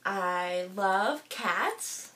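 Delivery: slow, choked-up words, barely holding it together. Real, not acted. Vlogger to viewers, choked-up and very slow. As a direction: voice catching on love as tears come. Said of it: "I'm just getting a little bit emotional".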